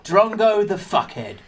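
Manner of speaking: lazy Aussie dad voice; Australian accent. Acted. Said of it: "it's Australian".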